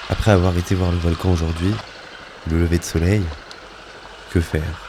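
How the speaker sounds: composed, scripted travel-diary reading; voice-over narration. A narrator's reading. Traveller recounts the volcano trip, composed voice-over narration. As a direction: narrate it like a lyrical travel journal.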